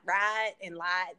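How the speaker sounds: "right" and "light" with a stretched Southern I; long I. Shown as a demonstration. Arkansas native showing her long I, stretched "right" and "light". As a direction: draw out the vowel slowly in "right" and "light". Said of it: "was my long I".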